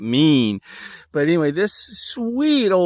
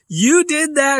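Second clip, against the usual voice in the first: much higher, amazed question; disbelieving gasp of a question; surprised; 11 semitones higher, 3 dB louder, slower than usual. Retold or imitated. Astonished reply to the mom.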